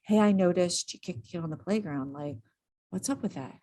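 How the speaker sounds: soft, easy, curious ask; calm curious question. Shown as a demonstration. To a kid who kicked a playmate, softly curious. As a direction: ask gently, no blame, just curious. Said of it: "that's literally how you say it".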